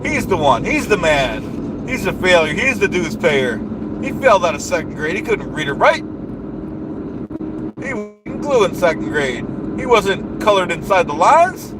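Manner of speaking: blustering rally-speech voice, big falling endings; pompous politician rant. Acted. Comic ranting at the audience about the dues payer, blustering politician voice. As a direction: rant like a self-important demagogue at a rally.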